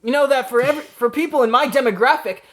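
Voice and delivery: upbeat surfer-dude dinosaur mascot; cartoon mascot voice. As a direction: pitch it high like a cereal ad. Herbie the dinosaur cereal mascot.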